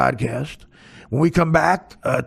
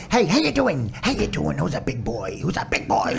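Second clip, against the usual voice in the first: doggy voice. Retold or imitated. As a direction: coo at the dog like a doting owner. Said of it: "hearing him do his doggy voice".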